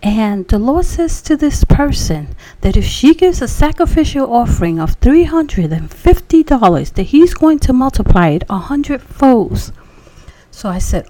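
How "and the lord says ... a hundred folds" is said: preacher prophesying. Retold or imitated. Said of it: "He says".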